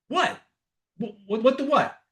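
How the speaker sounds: high-pitched mock disbelief; baffled surprise. Girlfriend to boyfriend bursting out laughing, baffled. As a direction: imitate a stunned, stammered what.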